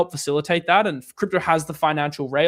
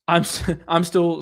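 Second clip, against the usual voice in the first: real laughing; 3 dB louder than usual. Real, not acted. Streamer reading a viewer's jarring question aloud, laughing. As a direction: break into a laugh on the first words. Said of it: "I'm just laughing".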